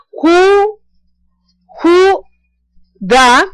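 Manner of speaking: who said high and held, da level; who da, con who agudo; high Chinese tone. Shown as a demonstration. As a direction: lift who high, then a short da. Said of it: "cuando yo digo solamente".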